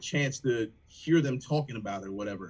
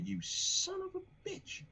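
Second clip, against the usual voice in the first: slow, much higher, hushed admiring curse; awed whisper curse; 11 dB quieter, slower than usual. Retold or imitated. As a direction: stretch it out in stunned admiration. Stunned admiration at rapper.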